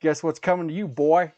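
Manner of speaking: loud teasing threat; mock threatening dad. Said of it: "And I'm like".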